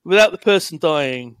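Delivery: bright, loud vlogger greeting; YouTuber intro voice. Pretend. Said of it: "Admiral No Aim here".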